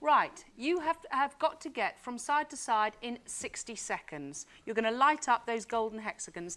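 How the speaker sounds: upbeat host explaining the rules; game show host. Acted. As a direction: lay out the rules like a quiz host. Host explains the Gold Run.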